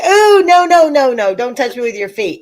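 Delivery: high, loud acted recoil, settling by the end; disgusted protest. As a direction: replay a squealed protest, easing off. Reenacting disgusted protest to husband.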